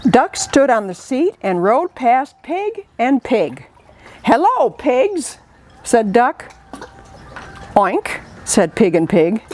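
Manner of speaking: put-on lively read-aloud for kids; storytime reading. Librarian reading a picture book to children, lively. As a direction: tell it like a picture book to little ones.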